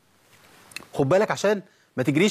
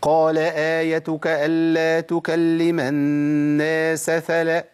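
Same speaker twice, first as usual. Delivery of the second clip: slow, drawn-out chant; ترتيل; Quran recitation; much slower than usual. Acted. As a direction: recite the verse in tajweed melody. Recites verse slowly.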